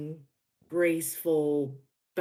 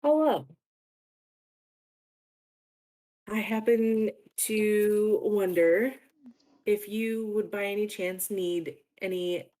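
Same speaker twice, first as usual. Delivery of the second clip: high, loud sing-out greeting; perky dancer in character; 4 semitones higher, 4 dB louder than usual. Acted. Bouncing dancer greets the clerk at the dock, perky and high. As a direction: pipe up brightly, higher and louder than usual.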